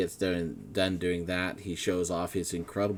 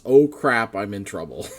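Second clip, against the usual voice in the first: panicked thought; 9 dB louder than usual. Acted. Officer's panicked thought on realising she's in trouble. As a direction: blurt it in alarm. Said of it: "all you get is".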